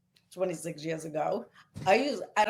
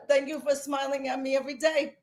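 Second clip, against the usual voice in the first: higher, tearful thank-you from a student; teary quote; 6 semitones higher than usual. Retold or imitated. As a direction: deliver the child's thanks while welling up. Student's farewell quoted, near tears.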